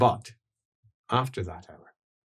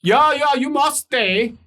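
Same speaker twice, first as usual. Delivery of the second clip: high, loud and insistent creditor; voice from below; 12 semitones higher, 5 dB louder than usual. Acted. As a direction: press him to stay and pay. Voice from below demands payment.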